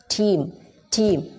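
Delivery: "Team" with a crisp aspirated t. Shown as a demonstration. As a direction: say "Team", tongue behind the teeth. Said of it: "when you pronounce team".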